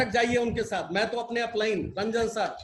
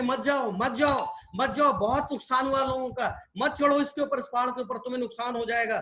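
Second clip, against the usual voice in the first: raised-pitch warning, lightly acted; imitated calling out; 3 semitones higher than usual. Crowd calling the climbing frog back, mildly urgent imitated calls. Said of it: "उसको लोग बुला रहे थे".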